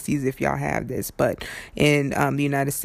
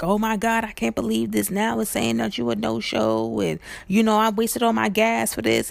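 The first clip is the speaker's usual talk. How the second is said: mock upset driver, higher; 6 semitones higher than usual. Driver fussing about the no-show, mock higher voice. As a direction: play the fussing driver, pitched up.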